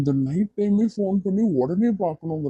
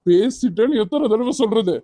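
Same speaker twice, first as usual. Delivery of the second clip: higher-pitched irritated retort; exasperated; 4 semitones higher than usual. Acted. Boyfriend questioned repeatedly by girlfriend, exasperated. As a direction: snap back, fed up with being questioned.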